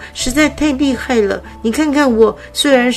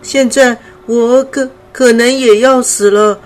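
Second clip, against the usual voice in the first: higher, louder breathless butterfly gasping out her story; the weak butterfly telling her sad story, short of breath; panting while talking; 6 semitones higher, 5 dB louder than usual. Acted. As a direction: push the words out between breaths. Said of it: "灰灰边说边喘着气".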